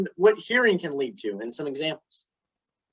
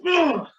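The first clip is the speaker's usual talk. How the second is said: frustrated ugh; 9 semitones higher than usual. Retold or imitated. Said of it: "Cindy stomps her foot and says".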